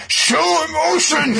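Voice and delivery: very high, loud, slow squeal; demanding fairy. Retold or imitated. Podcaster imagining Sylph yelling at blank Yuno, high squeal. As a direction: shriek the order at him. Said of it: "I like to imagine that she's going".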